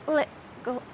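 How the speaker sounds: LICKLE said softly, T made with mid-tongue; plosive T practice. Shown as a demonstration. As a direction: quietly try little with the tongue on the roof of the mouth. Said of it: "you say the T with the middle of your tongue".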